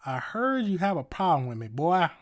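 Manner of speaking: mock older white Southern accent. Streamer mocking how older people say it, Southern accent. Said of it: "older white people love to say that".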